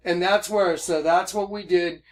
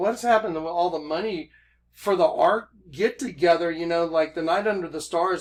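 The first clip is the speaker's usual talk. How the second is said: usual speaking voice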